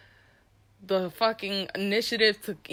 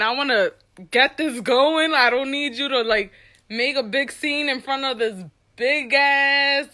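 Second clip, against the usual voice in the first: higher-pitched urgent plea, retold; acted-out protest; 5 semitones higher, 4 dB louder than usual. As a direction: protest as if desperate to hurry it along. Urgent protest at being singled out.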